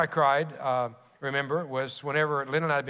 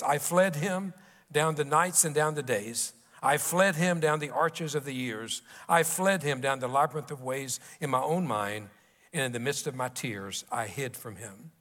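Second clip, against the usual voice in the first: poem recital. Acted. Preacher reciting The Hound of Heaven to the congregation, solemn and measured. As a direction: read it like a solemn poem, sinking at the close. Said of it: "It begins and ends by saying this".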